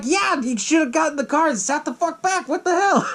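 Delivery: high-pitched, worked-up scolding; exasperated. Acted. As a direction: scold the movie character in mock outrage. Reacting in exasperation to the scene.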